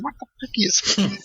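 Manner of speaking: high, laughing mock disbelief; laughing self-mockery. Telling friends what he asked himself, high and laughing. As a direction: squeal it through laughter at your own blunder. Retold baffled words to himself.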